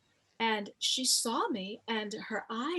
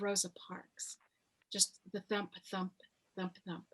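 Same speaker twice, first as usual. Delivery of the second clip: hushed whisper of the heartbeat; 3 semitones lower, 5 dB quieter than usual. Real, not acted. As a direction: whisper it, lost in the moment. Heartbeat during the hug.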